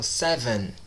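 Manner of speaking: "seven" ending on a clear N; touch the tongue up for the last N of "seven"; "seven" with the closing N fully pronounced; final N sounded. Shown as a demonstration. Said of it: "falo a letra N aí".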